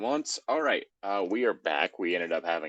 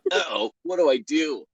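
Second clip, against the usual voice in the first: louder, higher worried outcry; 6 semitones higher, 6 dB louder than usual. A narrator's reading. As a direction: blurt it out in a panic over his health. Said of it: "really worried about the welfare of his balls".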